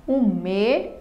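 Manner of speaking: "me" and "za" said as separate syllables; syllable division. Shown as a demonstration. Teacher splitting mesa for students, syllable division. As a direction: set "me" apart from "za", slowly. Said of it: "na divisão silábica nós vamos separar".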